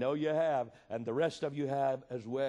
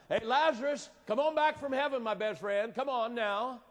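mock casual call; 7 semitones higher than usual. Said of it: "Is that the way it goes? No".

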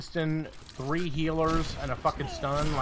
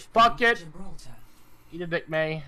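retold angry outburst; 3 semitones higher, 4 dB louder than usual. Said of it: "I was like".

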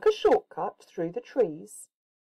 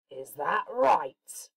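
wolf voice; 3 semitones lower, slower than usual. Acted. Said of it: "said the wolf".

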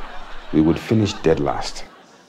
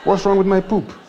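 indignant surprise; 12 semitones higher than usual. Retold or imitated. His outraged reply to wife.

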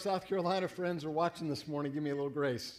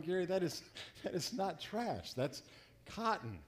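wife correcting; 5 dB quieter than usual. Retold or imitated. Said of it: "And she's going".

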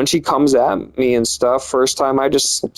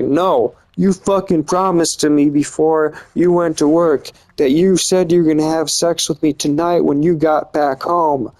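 higher, mildly indignant mock yell; retold yelling; 4 semitones higher than usual. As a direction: imitate an angry partner's insistent complaint. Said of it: "She's just yelling at me".

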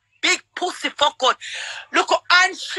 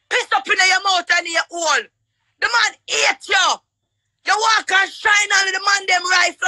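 furious shouting; 2 semitones higher than usual. Real, not acted. Woman cursing her rival on the live, furious shout. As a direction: yell every insult at her rival. Heated live-stream insult quarrel.

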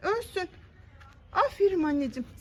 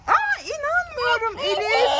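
mock shocked gasp; 5 semitones higher, slower than usual. Mother fakes shock at bugs for child.

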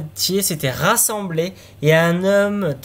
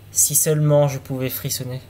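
said sadly; 3 semitones lower than usual. Acted. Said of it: "et dit tristement".

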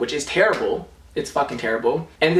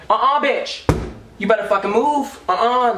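disgusted shooing; 9 semitones higher than usual. Real, not acted. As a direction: shoo the ant off in disgust. Shooing the ant away.

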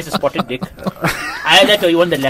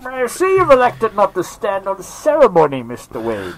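Bane; 3 semitones higher, 3 dB quieter than usual. Acted. Villain addressing his rival, theatrical Bane voice. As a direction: start high, sink down on the name. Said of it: "That's Bane".

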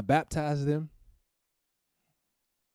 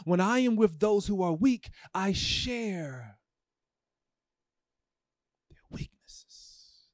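tearful reading; 6 semitones higher, much slower than usual. Real, not acted. Preacher rereading the verse to the church, fading to a tearful whisper. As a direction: let the verse break into a whisper.

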